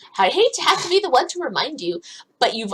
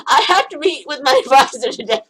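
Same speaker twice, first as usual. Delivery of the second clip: ordinary delivery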